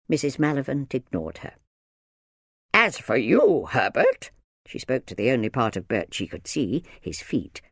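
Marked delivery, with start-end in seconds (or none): 2.7-4.3 louder, raised, pointed address; single the boy out sternly; stern minder. A narrator's reading. Minder turns to hiding Bert, stern.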